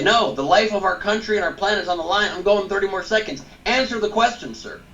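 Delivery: pitched high and forceful, taking over the debate; forceful debate demand. Pretend. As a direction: demand the answer, refusing to yield. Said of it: "You say".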